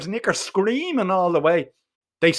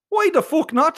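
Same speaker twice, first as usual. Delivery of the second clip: much higher, incredulous cry; outraged; 11 semitones higher than usual. Acted. Boy told there's no more rope, outraged. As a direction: demand it in horrified disbelief.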